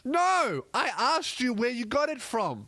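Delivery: high, emphatic mock outrage; exasperated retort. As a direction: cut off the guessing game indignantly. Acted exasperation at guessing game.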